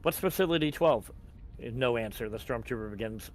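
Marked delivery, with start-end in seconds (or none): 0.0-1.1 mildly annoyed, pitch rising; irritated questions building in volume; annoyed questioning. Acted. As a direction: demand answers, more annoyed than afraid. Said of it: "more annoyed than afraid".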